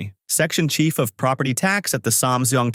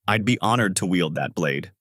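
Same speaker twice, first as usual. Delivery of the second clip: solemn; 3 semitones lower than usual. Acted. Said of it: "said in a solemn tone".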